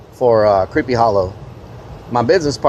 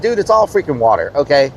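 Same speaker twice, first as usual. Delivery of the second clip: exasperated inner voice; 3 semitones higher than usual. Retold or imitated. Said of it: "I'm thinking to myself".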